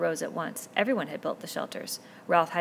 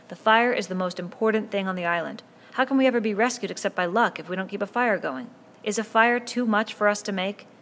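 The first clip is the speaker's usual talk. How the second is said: put-on a boy pleading loudly with the crowd, voice climbing higher; Ralph's impassioned speech about the fire, louder and higher; passionate boy chief; 4 semitones higher, 7 dB louder than usual. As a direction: make them see it matters, push hard.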